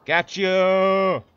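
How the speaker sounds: high, loud triumphant yell; excited shout. Real, not acted. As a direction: shout it as you catch him. Surprise kill.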